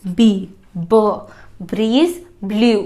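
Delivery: slow बी, ब before "breeze blew"; isolating the b sound. Shown as a demonstration. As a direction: separate out the ब sound. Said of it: "दूसरा".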